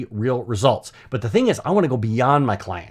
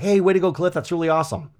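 higher-pitched imitation of cheering peers; excited congratulations; 5 semitones higher, faster than usual. Marketing group congratulating their colleague on his client, excited. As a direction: voice the group's upbeat praise. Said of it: "they're all excited for me".

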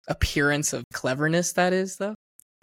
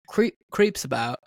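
lightly imitated singer's accent; a singer's accent. Retelling an old interview clip, imitated singer's accent. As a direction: try the musician's accent on it. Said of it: "in his accent".

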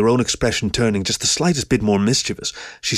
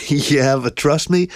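slow, higher-pitched words through a chuckle; thick chuckle; 6 semitones higher, slower than usual. A narrator's reading. Pearson reassuring her about the mess, chuckling thickly. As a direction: chuckle into the reassurance, taking it slowly. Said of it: "Pearson chuckled thickly".

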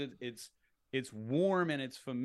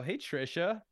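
familiar greeting; 3 semitones higher, slower than usual. Shown as a demonstration. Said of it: "I've spoken to you a million times before".

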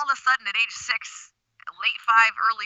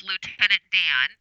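muffled behind hands; underwater voice. Real, not acted. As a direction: talk through cupped hands over the face. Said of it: "now you just sound like you're underwater".

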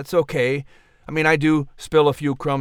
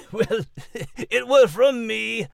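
sheepish confession; 8 semitones higher than usual. Acted. Max sheepishly confesses the crumbs.

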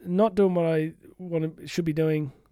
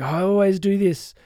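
self-critical groan; 3 semitones higher, 5 dB louder than usual. Retold or imitated. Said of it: "you get self-critical".

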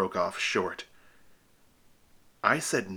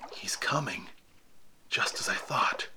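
muttered; 5 dB quieter than usual. Acted. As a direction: keep it under your breath, tense. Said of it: "I muttered".

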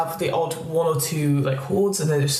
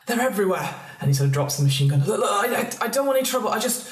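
terrified; 3 semitones higher, faster than usual. Acted. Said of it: "he's shaking in terror".

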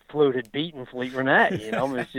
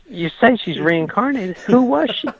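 pressing question; 9 semitones higher, 5 dB louder than usual. Retold or imitated. Pressing Frankel on his claim.

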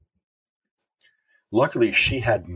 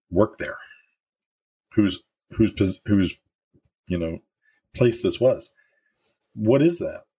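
amazed boss; 2 semitones higher than usual. Retold or imitated. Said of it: "my boss saying".

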